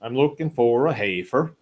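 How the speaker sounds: lightly voiced Amish accent; a hint of an Amish accent in a quoted line. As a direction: try on a mild Amish accent. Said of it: "That's, uh, my Amish accent".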